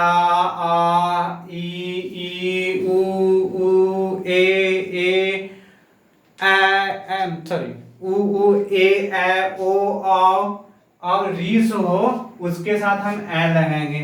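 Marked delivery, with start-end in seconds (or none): 0.0-12.0 each vowel drawn out slowly, one by one; vowel drill. Shown as a demonstration. Teacher to class, reciting vowel sounds slowly and clearly. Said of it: "जिसका उच्चारण आ".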